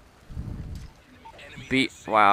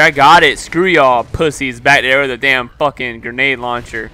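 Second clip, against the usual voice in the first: angry rant; 8 dB louder than usual. Real, not acted. Raging at enemies mid-game.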